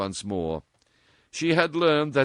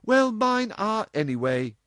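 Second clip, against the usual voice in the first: put-on higher, louder defiant girl; with a little grimace; 13 semitones higher, 6 dB louder than usual. A narrator's reading. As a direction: pull a face as you say it. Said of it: "with a little grimace".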